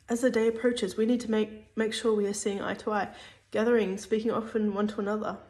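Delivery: talking with food in mouth; mouth full. Real, not acted. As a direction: speak around a mouthful of food. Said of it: "sorry, I've got, like, food in my mouth".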